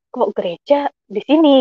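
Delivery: mildly baffled retold question; questioning lilt that rises at the end; puzzled. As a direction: wonder aloud, not quite believing it. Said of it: "saya masih bertanda tanya".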